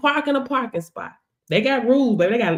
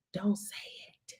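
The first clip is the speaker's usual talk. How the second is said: breathy warning whisper, much softer; 4 semitones lower, 14 dB quieter than usual. Acted. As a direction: hush it like a secret. Warning not to speak it.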